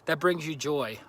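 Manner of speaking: slightly breathless; out of breath. Real, not acted. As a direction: speak a little winded from walking. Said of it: "I don't know why I'm out of breath".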